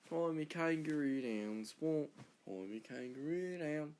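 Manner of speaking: slow put-on Australian drawl; Australian accent. Australian quoting kangaroo song, slow Australian accent. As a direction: draw it out in a mock Australian accent.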